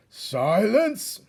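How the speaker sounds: high, loud roar. Acted. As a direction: slam the room into silence. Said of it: "roared the most very honored head mouse".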